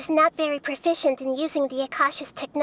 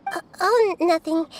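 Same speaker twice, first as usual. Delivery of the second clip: flustered denial. Acted.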